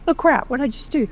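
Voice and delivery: high, giggly oh-crap panic; laughing panic. Retold or imitated. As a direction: laugh at your own rash promise. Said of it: "And I was laughing".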